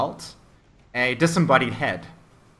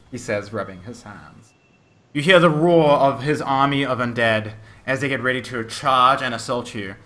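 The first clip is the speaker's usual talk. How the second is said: energetic battle scene-setting; game master narration. Acted. Game master describes undead charging the players, dramatic narration. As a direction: drive the action forward with dramatic emphasis.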